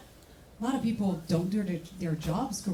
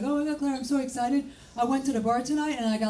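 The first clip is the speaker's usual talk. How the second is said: higher, breathless oh my God; gushing neighbor; 4 semitones higher than usual. Retold or imitated. Neighbor telling Claire about the bar, higher and gushing. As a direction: gush like a giddy neighbor.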